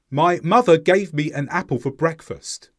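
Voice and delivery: each word kept separate and fully sounded. Shown as a demonstration. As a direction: say it unhurried, word by word. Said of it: "The second way was faster".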